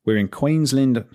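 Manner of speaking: a half-hearted try at an Australian accent on Queensland; attempted Australian accent. Shown as a demonstration. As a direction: stretch Queensland into a mock Australian accent, then give up. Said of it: "I can't do the accent".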